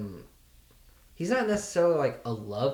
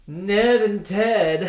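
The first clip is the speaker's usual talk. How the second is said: exasperated; 6 semitones higher, 8 dB louder, much slower than usual. Real, not acted. Groaning at hated characters.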